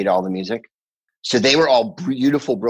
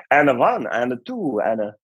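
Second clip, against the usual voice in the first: mock Scandinavian bandleader count-in; 3 semitones higher than usual. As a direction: count the band in with a cod Scandinavian lilt. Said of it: "famous in America 'cause he go".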